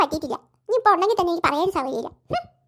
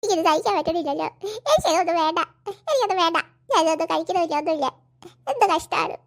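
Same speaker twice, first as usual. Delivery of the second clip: acted crying complaint; tearful whining; 3 semitones lower than usual. Scolded girl wailing that nobody spares her feelings, tearful. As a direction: whine through sobs, feeling picked on. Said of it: "കരയല്ലേ പാറു".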